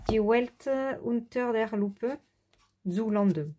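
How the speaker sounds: slow, careful German with a French accent; rusty German accent. Real, not acted. Colourist reading out a German book title, rusty German accent. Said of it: "mon accent allemand, euh, n'est plus ce que c'était".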